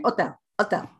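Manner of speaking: "hotel" as "oh-tel", H dropped, no pitch change; flat, silent H. Retold or imitated. Trainer imitating a Spanish-speaking learner, "hotel" flat with silent H. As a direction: say "hotel" in a monotone without the H. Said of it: "they don't give it any pitch change".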